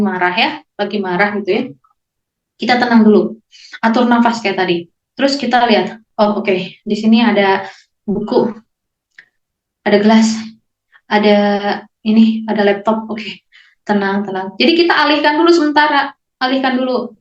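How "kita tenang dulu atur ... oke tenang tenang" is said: calm grounding demo. Shown as a demonstration. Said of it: "Jadi seperti ini".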